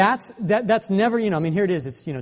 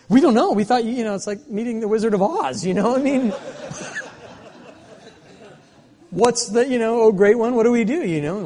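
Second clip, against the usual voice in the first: laughing retelling; 7 semitones higher, 4 dB louder than usual. Retold or imitated. Retelling their clueless answer, laughing.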